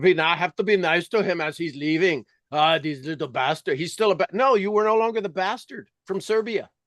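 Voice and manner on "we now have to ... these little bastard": put-on German accent on English. Voicing others talking about being nice to someone leaving: put-on German accent. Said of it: "I'm going to do my German accent".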